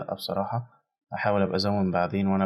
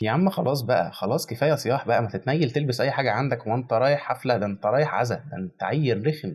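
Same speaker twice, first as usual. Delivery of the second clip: exasperated scolding; 3 semitones higher than usual. Real, not acted. Scolding the character on screen.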